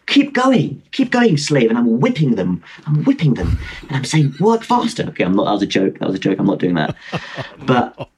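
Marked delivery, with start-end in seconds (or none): 0.1-1.7 high-pitched, urging command; mock slave driver. Joking that the pensioners pushing the bike are slaves, mock commanding. 4.4-5.0 high-pitched joke command; mock slave driver. Joking about whipping the helpers, mock commanding.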